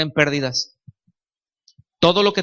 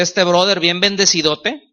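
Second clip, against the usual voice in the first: sarcastic. Retold or imitated. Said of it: "entiéndase mi tono sarcástico".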